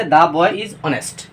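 put-on "The boy is honest" read very slowly, word by word; teacher dictating an English sentence; slow example reading. Shown as a demonstration. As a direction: read the example out for the class to copy. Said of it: "দেখবো এখানে রয়েছে".

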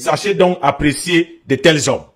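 measured scripture reading with pauses; lecture biblique à voix haute. Acted. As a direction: read the verse out deliberately, phrase by phrase. Lit un passage biblique. (lecture posée d'un verset biblique)

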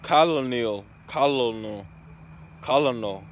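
sounding out Colonial carefully; attempting a hard word. Shown as a demonstration. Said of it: "see if I'm pronouncing it right".

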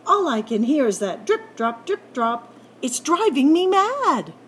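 building to a loud, high wail on mad; fed up and loud; exasperated complaint. Acted. Rabbit fed up with the dripping tap, loud exasperated wail.

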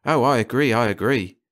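emphatic, with a punched first AGREE; emphatic agreement. A narrator's reading. Carter agreeing with Ranson, emphatic. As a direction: agree readily and firmly. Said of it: "Carter nodded his head emphatically".

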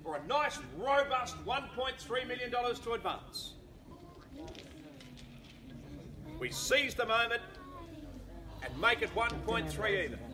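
steady auctioneer patter on a level tone; auctioneer's call. Real, not acted. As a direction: hold the bid on one note, projecting to the crowd. Auctioneer calls the bids.

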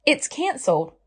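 high mock wail; a lightly played wail of dismay. Mother wailing over the canceled story time. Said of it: "wailed Ava's mother".

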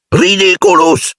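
high, drawn-out shout; cried-out spell. A narrator's reading. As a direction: cast it with a high, determined cry. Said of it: "gridò". (incantesimo gridato con decisione)

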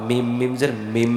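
"মিম জের মিম" ending in a long hummed m; demonstrated pronunciation. Shown as a demonstration. Teacher shows noon turning into meem, "মিম" with held m. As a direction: hold the last m of "মিম" as a sustained nasal hum. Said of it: "এরকম উচ্চারণটা হবে".

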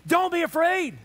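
high, loud, punchy attitude; a bit of sauce. Shown as a demonstration. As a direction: throw it like a fastball with sass. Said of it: "a little bit of sauce".

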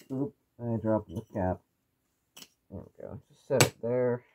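muffled through a gas mask; speaking through a tight respirator mask. Real, not acted. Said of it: "You should be able to hear me, uh, quite clearly through the, uh, voice diaphragm".

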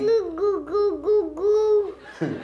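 put-on baby babble. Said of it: "Be doofy, be goofy".

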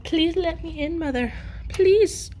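high whiny begging voice; pleading puppy voice. Acted. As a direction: beg like a puppy at the door. Voicing the puppy's pleading look.

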